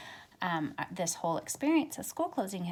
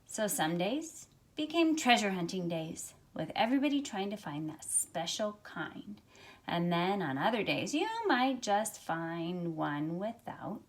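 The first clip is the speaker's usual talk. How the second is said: gentle storybook read-aloud for a class; reading to children. Acted. Teacher reading a picture book to her class, storytelling voice. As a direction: tell the story to young listeners, unhurried.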